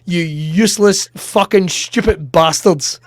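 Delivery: defensive, indignant comeback; mock-indignant self-defence; getting attitude. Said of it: "I was getting my attitude".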